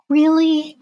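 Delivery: deadpan disbelief at his nerve; musician reacting in disbelief to the client; incredulous. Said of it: "And I was just like".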